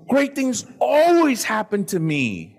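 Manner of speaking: a coach roaring the mantra; shouted affirmation. Real, not acted. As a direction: proclaim it to the room slowly.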